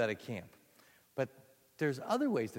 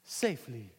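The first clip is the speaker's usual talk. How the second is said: cool version; 2 semitones higher, slower than usual. Shown as a demonstration. Teacher crooning the cool version while out of breath. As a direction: lean back and play it cool. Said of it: "the cool version".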